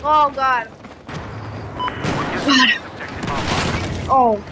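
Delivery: gasping from the wasabi burn; after eating wasabi. Real, not acted. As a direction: mouth burning from wasabi. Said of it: "Oh, that's hot".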